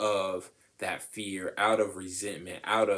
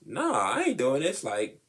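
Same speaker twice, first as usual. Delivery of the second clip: defiant refusal; 8 semitones higher, 3 dB louder than usual. Retold or imitated. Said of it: "is kinda like".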